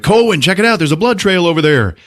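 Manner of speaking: acted-out urgency; urgent calling out. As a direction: call a friend over to a discovery. Companions call out discovery.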